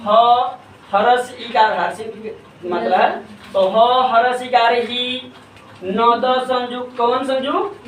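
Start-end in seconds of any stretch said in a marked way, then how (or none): 0.0-1.8 slow, stretched spelling of ह with short इकार; हिज्जे करके उच्चारण. Shown as a demonstration. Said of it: "कैसे करेंगे हिंदी का उच्चारण". 3.5-7.0 slow classroom spelling-out, ह building into ही; हिज्जे करके उच्चारण. Shown as a demonstration. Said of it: "कैसे करेंगे हिंदी का उच्चारण".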